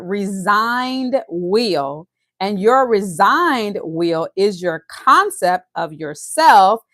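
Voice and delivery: slow, emphatic reading from a text; deliberate pace, stretched key words; slow read-aloud. Real, not acted. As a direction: weigh each word as you read. Reads the text aloud slowly.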